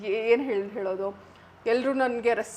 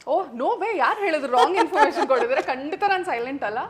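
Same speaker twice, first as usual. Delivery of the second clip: laughing protest; 3 semitones higher, 4 dB louder than usual. Real, not acted. Denies being silent, laughing.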